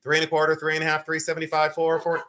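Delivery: fast auction chant in quarter steps; rapid-fire auction bid chant; auctioneer drill. Shown as a demonstration. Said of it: "I can keep doing my drills".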